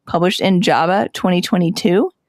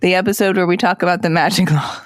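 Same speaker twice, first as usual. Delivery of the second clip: Friends style title. Pretend. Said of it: "I'm gonna call them all in Friend style".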